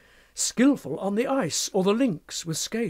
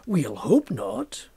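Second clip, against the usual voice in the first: dry, unconcerned; much slower than usual. Acted. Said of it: "said Macfarlane".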